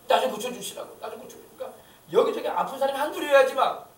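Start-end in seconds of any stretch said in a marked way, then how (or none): 0.1-1.0 a voiced, imploring cry for healing; pleading aloud. 병자가 예수께 간청함. 1.0-1.6 the plea repeated in a breathless whisper. Acted. 같은 간청을 속삭여 반복.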